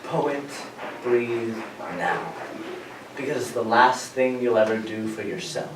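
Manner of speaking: soft, hushed, gentle advice from a dog; a dog quietly offering advice; calm dog voice. Pretend. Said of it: "And then my dog says".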